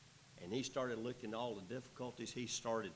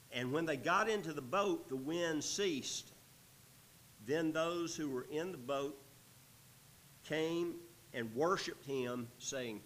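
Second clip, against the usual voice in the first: slightly raised, measured Bible reading; projected pulpit narration; scripture reading; 4 semitones higher, 4 dB louder than usual. A narrator's reading. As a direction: read the verse out to the congregation. Reads scripture aloud.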